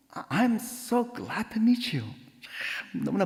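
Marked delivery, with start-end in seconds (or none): 0.1-2.1 high, slow, drawn-out friendly greeting; smiling greeting. Retold or imitated. New neighbor greeting the woman who came to argue, smiling. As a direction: greet sweetly with a put-on smile. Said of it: "이제 싹 웃고".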